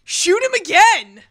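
high, drawn-out mock shout; hollered, play-acted cheering; imitated crowd cheer. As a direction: egg them on like a rowdy crowd. Acts people egging on a shooting.

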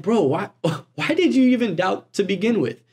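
lightly exasperated, with a small laugh; disbelieving bro. Retold or imitated. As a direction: ask it like a puzzled buddy. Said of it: "No, no, no. He says, like".

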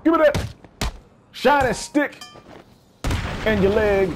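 high, squeaky goblin voice; greedy creature. Pretend. Gamer voicing a goblin grabbing loot, high squeak.

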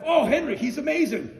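high, loud rave with a laugh; imitating a gushing singer. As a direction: rave about him like a fan. Imitating a singer gushing about a musician.

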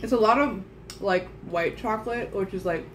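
chewing while talking; speaking behind hand; mouth full. Real, not acted. Seen 1: Left speaker holds biscuit, chews, covers mouth with hand while talking.

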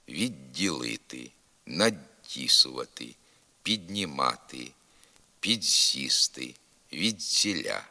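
д palatalized in «відділити», «надтісувати», «піднімати», «підсісти», «відціля»; softened prefix д. Shown as a demonstration. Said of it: "пом'якшується звук «д» префікса".

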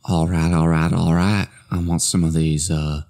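lightly drawled laid-back Texan voice; McConaughey impression. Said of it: "Matthew McConaughey at the grocery store".

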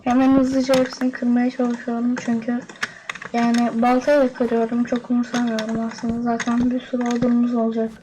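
flat, even robot-like delivery. Real, not acted. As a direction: talk like a monotone robot. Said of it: "Ben niye robot gibi konuşuyorum". (robot gibi tekdüze ses)

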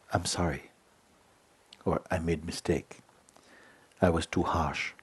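soft apology. Shown as a demonstration. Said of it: "the power, uh, to say".

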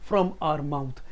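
very slow, each word placed like a pearl; slow, polished diction; slow clear English. Shown as a demonstration. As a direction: say it slowly and cleanly. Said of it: "मोती की तरह निकलना चाहिए".

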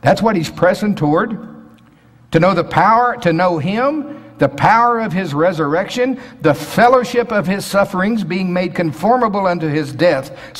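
fervent sermon build; preaching. Acted. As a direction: lift the congregation with each phrase. Rising preaching over verse list.

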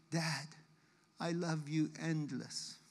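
soft, low imitation of a weak child's whisper; retold whisper. Father recalls his daughter's whisper, soft and slow. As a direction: quietly echo her last words. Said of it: "my daughter whispers to me".

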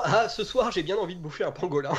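reprise rapide de la réplique du crétin; crétin imité, plus rapide. Shown as a demonstration. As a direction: rejoue le crétin, un peu plus vite. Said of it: "Donc, je reprends". (voix de crétin imitée vite)

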